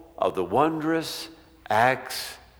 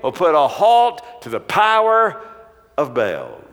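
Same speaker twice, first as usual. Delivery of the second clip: defiant declaration; 6 semitones higher, 5 dB louder than usual. Acted. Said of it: "Elijah is saying".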